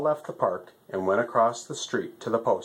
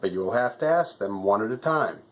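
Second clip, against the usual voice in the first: lightly voiced fussy postmaster stork, pitched up; a busy bird, a bit higher than the narrator; 5 semitones higher than usual.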